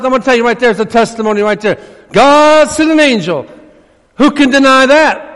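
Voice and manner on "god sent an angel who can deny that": high, loud declaration on God; preaching emphasis. Acted. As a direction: proclaim it to the room. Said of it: "preacher repeats for emphasis".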